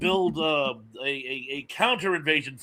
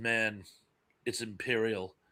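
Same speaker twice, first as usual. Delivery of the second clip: put-on very grim voice, much lower pitch; 7 semitones lower, 9 dB quieter than usual. Retelling how the Solonite answered the man, in a put-on very grim voice. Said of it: "in this very grim voice goes".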